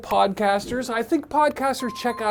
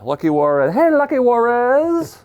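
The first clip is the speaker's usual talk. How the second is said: mock Spanish accent; 4 semitones higher, 4 dB louder than usual. Host calling the cat in a mock Spanish accent. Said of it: "With questionably racist accent".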